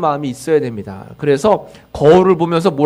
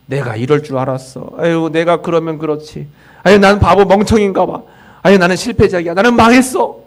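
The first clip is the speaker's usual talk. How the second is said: a touch of despairing self-criticism; self-blaming lament. Retold or imitated. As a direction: sigh it out like someone beating themselves up. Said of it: "내 자신이 내 자신을 비난하면".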